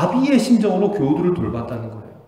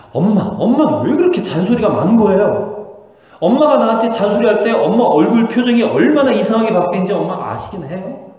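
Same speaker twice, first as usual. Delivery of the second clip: higher, louder rebellious daughter; imitated angry outburst; 5 semitones higher, 4 dB louder than usual. Daughter snapping at her nagging mother, mock angry yell. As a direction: act out a teenager yelling back. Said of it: "갑자기 그냥 소리를 지르면서 이렇게 말해요".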